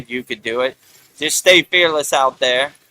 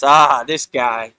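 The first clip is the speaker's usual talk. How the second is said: dismissive scoff; 5 semitones lower than usual. Retold or imitated. Unmasking the Wizard of Oz and dismissing him, fading scoff. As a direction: wave him off, dropping to near nothing.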